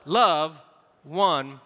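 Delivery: slow, emphatic reading, love punched; reading aloud together. Shown as a demonstration. Pastor coaxing the congregation through the verse, emphatic. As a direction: lean on love. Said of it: "come on".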